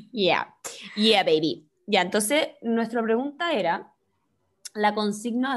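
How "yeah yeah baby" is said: low breathy whisper, teasing; lower, whispered yeah baby; playful whisper. Pretend. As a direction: whisper it low like a sly joke.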